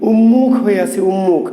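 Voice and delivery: "উন্মুখ" said um-mukh, doubled m; regional pronunciation. Shown as a demonstration. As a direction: merge n into m in "উন্মুখ". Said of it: "অঞ্চলে উচ্চারণ করি কি".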